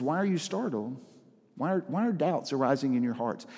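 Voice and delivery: compassionate. Acted. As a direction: say it as if comforting a frightened friend. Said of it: "you can almost hear the compassion in his voice".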